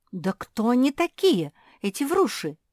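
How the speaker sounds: high, loud indignant question; angry. A narrator's reading. Josie angrily demands who the vrushi are. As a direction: demand an answer. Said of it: "разгневалась Жози".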